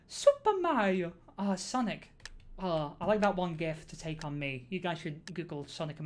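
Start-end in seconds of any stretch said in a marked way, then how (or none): 0.1-1.1 high, loud, stretched-out exclamation; excited call-out. Pretend. Streamer spotting a Mario build, hammed-up excited cry.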